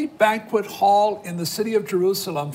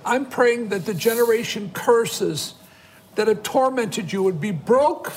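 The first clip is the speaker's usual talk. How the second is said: earnest, insistent intercession in measured phrases; fervent prayer. Real, not acted. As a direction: declare a prayer over the viewers. Prayer for families on request.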